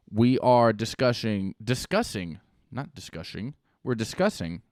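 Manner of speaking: light Irish lilt on the words; Irish accent. Pretend. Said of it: "I'm already in my Irish accent".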